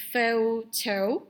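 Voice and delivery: "photo" split into two long beats, foh-toh; modelled pronunciation. Shown as a demonstration. Teacher shows how it is pronounced, "photo" as foh-toh. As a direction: say "photo" carefully, each O held. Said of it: "it is pronounced".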